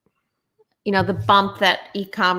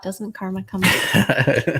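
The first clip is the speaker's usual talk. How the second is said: slow, stretched words through a yawn; talking mid-yawn; slower than usual. Real, not acted. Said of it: "I keep yawning".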